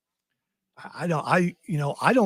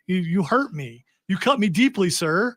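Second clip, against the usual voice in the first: mock hurt. Mock offence at teased accent.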